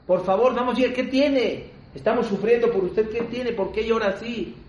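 high, insistent acted plea; urgent pleading. Onlookers beg crying man to explain.

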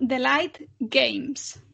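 slow, careful naming of the title; over enunciating. Real, not acted. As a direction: spell it out slowly so it's understood. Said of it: "lo digo lento para que se entienda mejor".

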